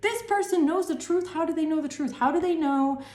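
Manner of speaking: acted panic. Plotters asking themselves how you know, acted panic. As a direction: fret aloud in mock panic.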